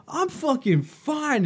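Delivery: put-on high, slow, slurred drunk denial; imitating a sloppy drunk brushing off concern; drunk snap. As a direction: play the belligerent drunk insisting he's fine. Drunk guy snaps back.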